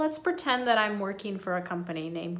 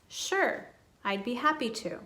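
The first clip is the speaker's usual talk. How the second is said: smiling, happy to help; 2 semitones higher than usual. Shown as a demonstration. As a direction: sound approachable and glad to help. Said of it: "Always smiling when you say these".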